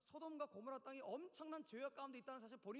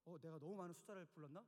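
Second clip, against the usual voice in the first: lower, acted second-guessing aside; flustered; 7 semitones lower, 3 dB quieter than usual. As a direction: wonder to yourself, caught off guard. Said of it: "아브라함이 당황해갖고". (당황해서 낮게 혼잣말하듯)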